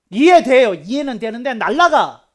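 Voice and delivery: sudden loud preaching burst; emphatic outburst. Real, not acted. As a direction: raise the voice sharply to warn. (갑자기 언성을 높여 경고하듯)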